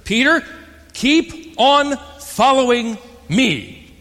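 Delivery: loud, high call of Peter, keep on following me, stretched slowly; exclaimed command. Shown as a demonstration. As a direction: call it out like an urgent order. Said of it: "Exclamation point".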